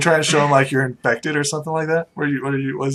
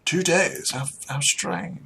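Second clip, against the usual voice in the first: lightly voiced, hesitant aristocrat; mildly puzzled gentry; haughty noble. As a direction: condescend politely to a hired guide. Game master plays the noble.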